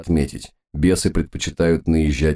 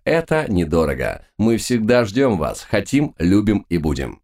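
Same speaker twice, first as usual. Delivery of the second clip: showy announcer. Acted. Poster read in showy announcer voice.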